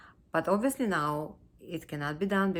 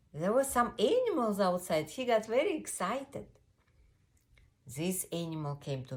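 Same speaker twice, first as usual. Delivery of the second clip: put-on children's storytelling; 3 semitones higher than usual. A narrator's reading.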